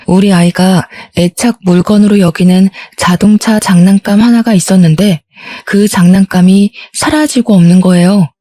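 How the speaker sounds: ordinary delivery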